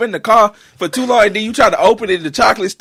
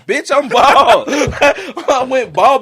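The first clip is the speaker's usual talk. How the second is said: laughing; 4 semitones higher, much slower than usual. Real, not acted. Mock offense while laughing.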